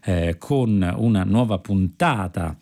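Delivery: bright, measured continuity announcement; radio announcer. Acted. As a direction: introduce the next episode like a radio host. Host switches to programme announcement.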